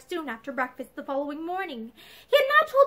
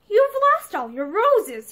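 slow, higher, louder disapproval; dissatisfied; 6 semitones higher, 5 dB louder, slower than usual. A narrator's reading. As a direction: find fault with her looks. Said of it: "dissatisfaction in his voice".

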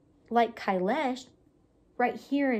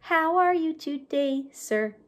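puppet voice; 3 semitones higher, 4 dB louder than usual. Shown as a demonstration. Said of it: "they're gonna talk to each other".

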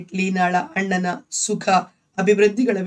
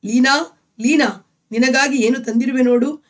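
higher, louder call across the house; husband calls to his wife, louder and higher; 4 semitones higher, 5 dB louder than usual. Acted. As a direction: call her name from the doorway. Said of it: "ಎಂದು ಲೀನಾಳನ್ನು ಕೂಗಿ".

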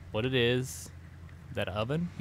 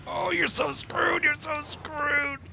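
very high, slow falsetto; sing-song it in a silly voice; teasing someone in trouble; mock squeaky taunt; much slower than usual. Mocking in squeaky voice.

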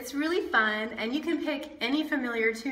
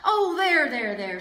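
soothing; 2 semitones higher, 5 dB louder than usual. Acted. Papa soothes crying baby.

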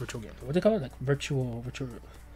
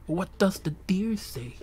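slow "What does the deer say", raised in pitch; drawn-out question; 4 semitones higher, 4 dB quieter, slower than usual. Acted. Streamer wondering about deer noises, slow musing question. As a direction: stretch "does the deer say" slowly and higher.

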